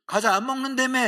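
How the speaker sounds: high, loud mock gotcha; teasing accusation. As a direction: catch them out, teasing. Friend catching snack cheat.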